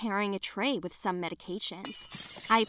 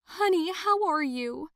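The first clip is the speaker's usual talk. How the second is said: higher, louder anxious mother's voice; worried mother; 7 semitones higher, 4 dB louder than usual. Acted. Parents crying at hospital bedside.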